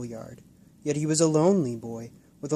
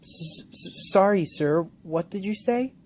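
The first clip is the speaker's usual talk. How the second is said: put-on high, stammering frightened child; startled stammer; 6 semitones higher, 4 dB louder than usual. Startled boy stammering to the old man, nervous. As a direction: jump and stutter an apology.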